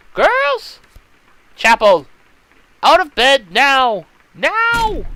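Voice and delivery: loud, high barked orders; a matron roaring everyone up; stern shout. Acted. Matron bursting in and shouting the girls out of bed.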